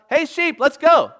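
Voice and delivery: high, loud call to the flock across the pen; shepherd calling out. Retold or imitated. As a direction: call the sheep home like a shepherd at the gate. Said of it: "he calls out".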